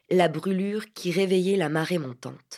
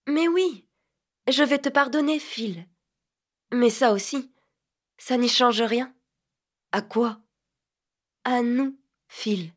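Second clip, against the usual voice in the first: cryptic softness; 5 semitones higher than usual. Acted. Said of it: "Elle parlait avec une douceur sibylline".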